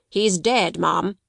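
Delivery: brusque. Acted. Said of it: "with jerky brusqueness".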